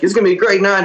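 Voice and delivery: high-pitched hammed-up show introduction; mock emcee hyping a tiny crowd; hype-man host. Repeats host's hype for tiny crowd.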